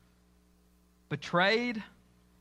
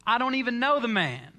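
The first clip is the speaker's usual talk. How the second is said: Peter swearing he never knew him, raised voice; mock oath, louder; 5 semitones higher, 4 dB louder than usual. Servant girl questions Peter, he denies with an oath, louder. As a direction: raise the voice and protest. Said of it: "with an oath this time".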